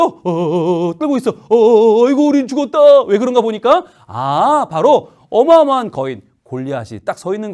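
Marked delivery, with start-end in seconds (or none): 0.0-3.0 higher, louder hammed-up panic; mock frightened soldiers. Soldiers trembling at the sight of Goliath, hammed-up fear. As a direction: stammer in mock terror.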